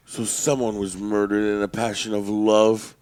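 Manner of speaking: slow, low deadpan delivery; measured, portentous setup before the theme; TV detective one-liner. Retold or imitated. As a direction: lightly imitate a dramatic TV cop's quip. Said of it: "so it'd be like".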